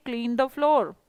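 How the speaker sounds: clean the floor said slowly for learners; slow model answer. Shown as a demonstration. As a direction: spell it out slowly for the class. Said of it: "simple बोला फर्श साफ करो". (धीरे-धीरे, साफ़ उच्चारण में)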